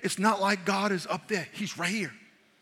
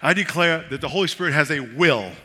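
firm declaration; 6 dB louder than usual. Shown as a demonstration. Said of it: "I just say".

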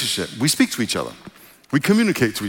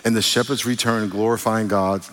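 measured, even Bible reading voice; scripture reading; 2 semitones lower than usual. Acted. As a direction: read the passage with reverence.

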